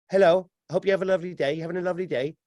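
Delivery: lightly voiced robot cashier greeting; malfunctioning robot. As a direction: mimic a programmed shop greeting. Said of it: "It's a malfunctioning robot".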